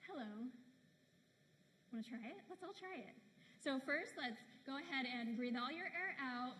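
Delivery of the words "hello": low, falling HELLO on the out breath; natural lower range. Shown as a demonstration. Coach demonstrates natural lower range, low relaxed hello. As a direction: let the breath out, then a relaxed, softer HELLO. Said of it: "on your out breath, then say hello".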